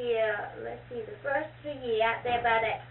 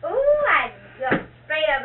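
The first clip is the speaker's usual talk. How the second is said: retold fright; 5 semitones higher, 9 dB louder, slower than usual. Reliving a fright.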